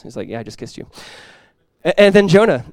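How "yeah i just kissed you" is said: deadpan mumble. Retold or imitated. Judas's deadpan reply, joking.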